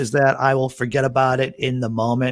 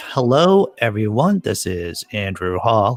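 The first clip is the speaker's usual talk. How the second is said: deep, sexy, sultry voice, pitched lower; 3 semitones lower than usual. Opening a live morning program, the speaker greets everyone in a deep, sexy voice. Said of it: "I'm gonna use my deep, sexy voice".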